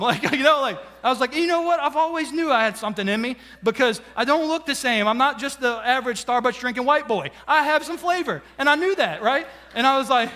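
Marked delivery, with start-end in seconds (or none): 1.4-8.4 cocky excited boast; proud boasting. Retold or imitated. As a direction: puff up and show off your new flavor.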